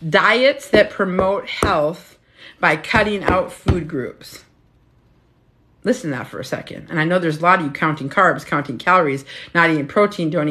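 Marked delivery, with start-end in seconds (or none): 0.1-4.5 very slow preacher delivery; preaching. Acted. Speaker taking her viewers to church on diets, slow preaching. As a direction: lay it down like a sermon. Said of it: "I'm taking you to church on this one".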